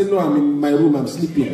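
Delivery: deadpan mock answer; sarcastic answer. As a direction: answer dry, as if it's obvious. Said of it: "Give them a sarcastic answer".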